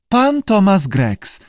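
slow, high-pitched lizard echo; high creature repeat; lizard parroting. A narrator's reading. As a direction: parrot each word back, drawn out and high. Lizard echoes the keeper.

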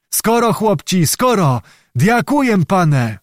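high-pitched eager orders; rally the lads with glad urgency; joyful calling. A narrator's reading. Old man orders music and mead for the knight, joyfully.

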